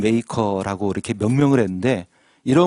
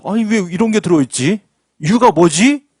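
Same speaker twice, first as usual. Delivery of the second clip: puzzled; 5 semitones higher, 4 dB louder than usual. Acted. Acted puzzled new boat owner.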